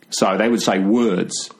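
lightly done Australian accent, drawn out. Shown as a demonstration. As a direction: demo of an Australian accent, throaty, slow. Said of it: "Australian accent is more coming from the throat".

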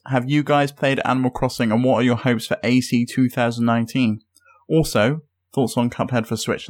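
lightly put-on American accent; attempted American accent. Shown as a demonstration. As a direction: read it out in a tentative American accent. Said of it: "in the American accent".

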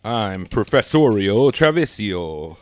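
low, slow pompous professor. Pretend. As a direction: play the stuffy professor. Mock professor name intro.

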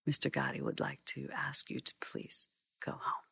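near-whispered henchman's request; very soft, measured and polite; hushed polite threat. Retold or imitated. Henchman's politely menacing message retold.

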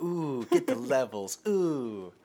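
hushed low studio-vibe voice; soft and low, savor the vibe; overexcited recording artist. Pretend. Plays the recording artist too.

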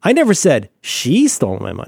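"never" leaned on, the sentence kept level; stress on never. Shown as a demonstration. Host repeats the stress-game sentence stressing "never". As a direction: give "never" the weight. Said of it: "emphasize any word in that sentence".

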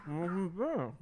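soft eerie announcer voice; creepy airline voiceover. Retold or imitated. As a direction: greet them like a creepy recording. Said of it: "the creepy airline voiceover".

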